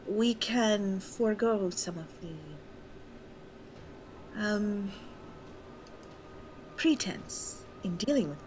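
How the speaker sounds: light ghostly voice, formal and diplomatic. Acted. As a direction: speak as an otherworldly spirit, gently. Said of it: "I would like to use my ghost voice".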